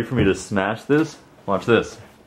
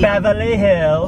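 slow, much higher posh drawl of Beverly Hills; hoity-toity accent; 8 semitones higher, 3 dB louder, slower than usual. Pretend. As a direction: stretch Beverly Hills out like a snob. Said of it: "hoity-toity right now".

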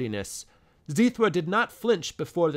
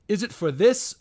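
put-on loud, scolding old man's outburst; angry cry; 4 semitones higher, 5 dB louder than usual. Old uncle shouting angrily at his tardy nephew. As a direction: bellow at the late nephew. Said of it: "cried Pornos".

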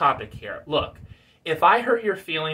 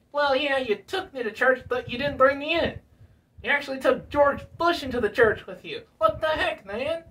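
high, indignant puppet voice; Bill Clinton puppet; 6 semitones higher than usual. Acted. Puppet protests being left out of church, indignant. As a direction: argue back as a high-voiced, put-out puppet. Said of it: "Bill Clinton".

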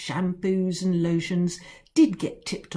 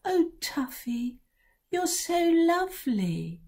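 put-on gushing child; 7 semitones higher than usual. A narrator's reading. Children gush over the cat.

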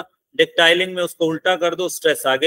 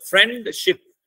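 फ्रेंडशिप in two beats, फ्रेंड higher, शिप falling; broken into syllables; 4 semitones higher than usual. Shown as a demonstration. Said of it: "बोल के देख लो".

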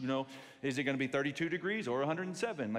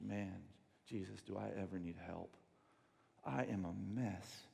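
humbled plea; 7 semitones lower, 5 dB quieter than usual. Pretend. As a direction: sigh it out, broken. Humbled person voiced.

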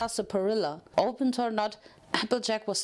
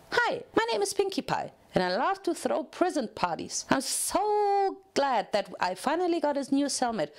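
bubbly Pinkie Pie; 2 semitones higher than usual. Acted. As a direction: bounce every word like an overexcited party pony. Pinkie Pie voiced in story.

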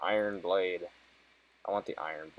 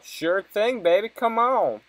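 mock flirty voice; 12 semitones higher, 6 dB louder, slower than usual. Voices NPC reply aloud.

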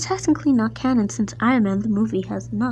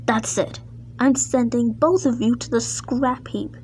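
angry order; 4 semitones higher than usual. Acted. Controller sending both engines to scrap, angry. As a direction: hand down the punishment, then dismiss them.

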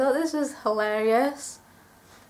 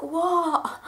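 laughing what; 6 semitones higher than usual. Retold or imitated. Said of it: "and I'm just like".

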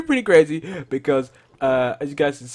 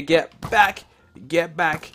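cowboy voice; 3 semitones higher, 3 dB louder, slower than usual. Pretend. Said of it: "I sound like a cowboy".

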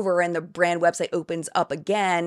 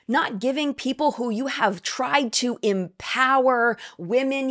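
sarcastic mockery; 4 semitones higher than usual. Sarcastic mock of MLM pitch.

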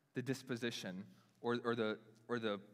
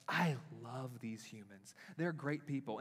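tender Jesus voice; 3 dB quieter than usual. Acted. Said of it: "Jesus is like".

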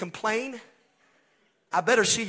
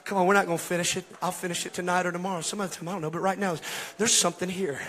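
subdued pastoral talk; faster than usual. Real, not acted. Subdued talk after the climax.

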